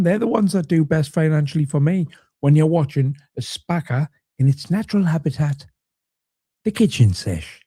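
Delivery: lightly voiced nature documentary narrator; a hint of hushed wildlife narration; Attenborough impression. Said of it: "That was a very good Attenborough impression".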